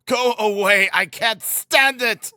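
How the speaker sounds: high, strained plea to be left alone; irritable. A narrator's reading. Sick son sending his family away, high exasperated protest. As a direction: drive them off fretfully, drawing out the end. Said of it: "he repeated irritably".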